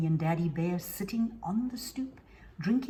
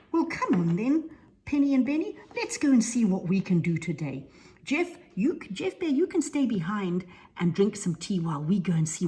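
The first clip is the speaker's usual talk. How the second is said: loud, higher rallying call; Tommy Bear, take-charge leader; 3 semitones higher, 7 dB louder than usual. Acted. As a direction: round up the younger bears.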